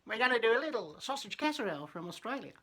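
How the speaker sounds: loud, high-pitched greeting in a put-on Australian accent; mock Australian accent. Vlogger greeting viewers to a sausage casserole, mock Australian accent. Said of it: "it's my fucking Australian accent".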